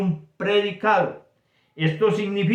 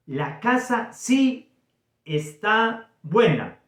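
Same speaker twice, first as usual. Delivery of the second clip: slow, emphatic statement; affirmative example; 5 semitones higher, slower than usual. Shown as a demonstration. Teacher reading a sample statement, slow and emphatic. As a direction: lean on "sí" slowly to show the affirmation. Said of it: "Esa es una oración o un enunciado afirmativo".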